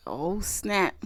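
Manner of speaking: breathy unvoiced whisper; whispered oh snap. Whispering her shock at grandma's gossip. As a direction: hush it out in shock. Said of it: "I was like".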